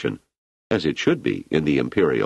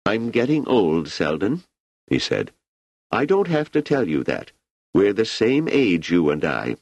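higher-pitched emperor, relaxed and chatty; an ageing emperor musing easily to an old friend; Emperor Cleon; 7 semitones higher than usual. Acted. Emperor Cleon musing to Selden about his age, higher and relaxed.

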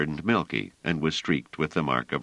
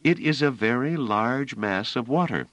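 soothing; 8 semitones higher than usual. A narrator's reading. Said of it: "said Bliss soothingly".

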